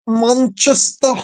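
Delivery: a light imitation of an old lady's Manchester accent, "Manchester" drawn out slowly. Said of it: "she had this, this Manchester accent".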